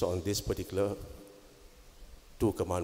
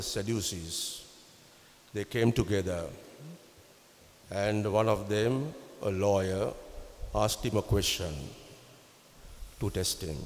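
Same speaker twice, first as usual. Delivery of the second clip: solemn scripture proclamation; gospel reading. Acted. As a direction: read it out like the Sunday gospel.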